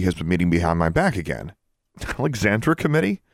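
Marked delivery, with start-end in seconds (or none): 2.2-3.2 high amused rising echo. Acted. Sonia echoes Alexandra's phrase, high and amused. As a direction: tease the phrase back in disbelief. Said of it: "Sonia giggled".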